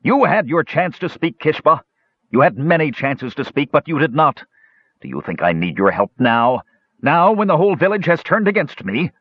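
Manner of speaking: high, shrill yell at Kishpa; a high shrill dwarf, lashing out at an old friend; shrill shout. A narrator's reading. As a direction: shriek it up high, hurt and angry. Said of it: "In a shrill voice, Mertwig shouted".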